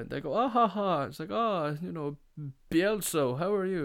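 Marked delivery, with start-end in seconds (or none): 0.3-1.0 high, loud affected ha-ha; hammed-up laughter of wine drinkers; mock posh laugh. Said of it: "And they're laughing". 1.3-3.8 high, affected posh greeting; put-on upper-crust voice; pretentious regular greeting. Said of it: "sitting there with their turtleneck".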